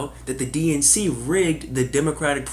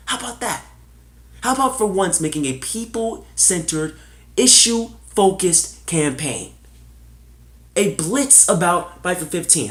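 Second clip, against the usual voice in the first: higher, louder campaign-style push; rallying rant; 4 semitones higher, 4 dB louder than usual. Real, not acted. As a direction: hammer each demand like at a rally. Rallying call for real issues.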